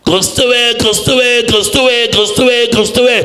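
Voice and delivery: high, insistent cry of prayer; pleading, high-pitched invocation; heartfelt calling. Shown as a demonstration. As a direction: call out over and over from the heart. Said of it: "ഹൃദയത്തിൽ തട്ടി വിളിക്കുന്നതാ".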